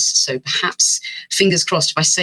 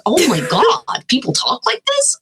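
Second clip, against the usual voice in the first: high, slow stereotypical New York Italian; hammed-up Italian American exclaim; Italian American accent; 12 semitones higher, slower than usual. Shown as a demonstration. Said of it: "I just sound like I'm trying to do kind of stereotypical stuff".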